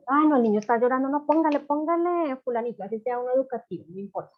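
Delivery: flustered parent. Retold or imitated.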